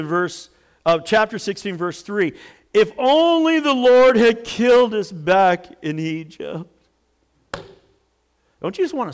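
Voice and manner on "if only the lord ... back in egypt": louder, higher complaint; moaning. A narrator's reading. Israelites complaining in the wilderness, moaning. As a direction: moan it out in protest. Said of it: "They moaned".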